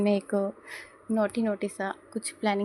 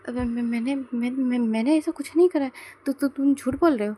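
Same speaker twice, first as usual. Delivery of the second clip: flustered stammer; 3 semitones higher, 4 dB louder than usual. Acted. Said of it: "उसे goosebumps आने लगते और कहता है".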